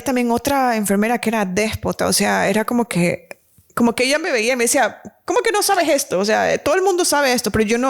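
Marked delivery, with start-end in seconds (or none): 5.2-7.5 higher, scolding disbelief; scornful nurse. Retold or imitated. Rude nurse scolding the young mother, scornful. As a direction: talk down to a clueless girl.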